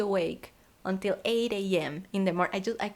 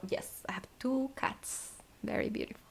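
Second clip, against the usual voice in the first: whispering; 4 dB quieter than usual. Real, not acted. Unvoiced whisper.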